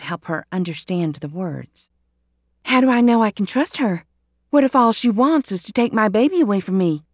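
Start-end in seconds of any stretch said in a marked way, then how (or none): 2.6-7.0 higher, louder, faster worried plea; anxious pleading. Acted. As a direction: fear for the baby spilling out. Emma Lou fears losing baby.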